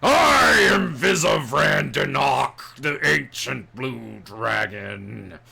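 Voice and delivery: slow, proud ancient dragon announcing; loud, then settling into suspicion; booming dragon voice. Acted.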